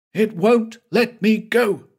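high, strained cry of terror; scream. A narrator's reading. Man trapped by a house cries out in terror. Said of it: "That scream".

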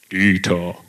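deep, weighty divine call; booming voice of God. Pretend. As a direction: summon him like God from above. Mimics an audible voice of God.

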